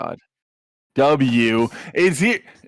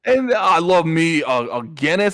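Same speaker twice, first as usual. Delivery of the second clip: put-on British accent; 5 semitones higher than usual. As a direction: ham up a cheery British bloke. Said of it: "and he's going".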